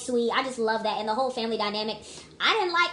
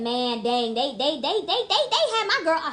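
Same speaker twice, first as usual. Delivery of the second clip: laughing disbelief; 4 semitones higher than usual. Retold or imitated. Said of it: "I said".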